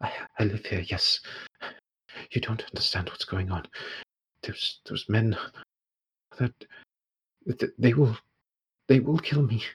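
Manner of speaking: hushed, halting frightened woman; terrified. Acted. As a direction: act scared, with broken starts and pauses. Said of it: "absolutely terrified and just goes".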